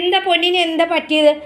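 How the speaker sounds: high, doting question; cooing to a pet. Real, not acted. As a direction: ask the darling pet what is wrong. Asking pet what is wrong.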